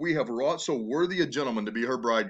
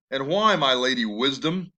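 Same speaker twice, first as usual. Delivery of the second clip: sarcastic; 3 dB louder than usual. Acted. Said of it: "That's very sarcastic".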